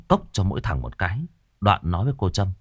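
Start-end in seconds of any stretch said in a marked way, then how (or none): none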